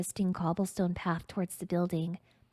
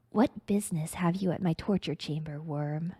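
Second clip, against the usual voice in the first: hissing. Acted. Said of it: "Thresh hisses".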